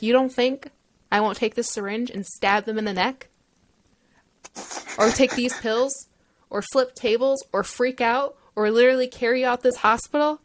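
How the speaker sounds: mock-threatening mom defending her child; fierce protective mom. Mom voiced threatening hospital staff.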